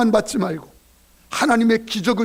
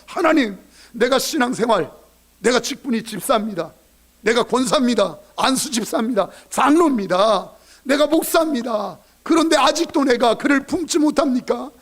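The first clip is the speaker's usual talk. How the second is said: building repentant prayer; 4 semitones higher than usual. Retold or imitated. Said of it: "그때 그도 변화시켜".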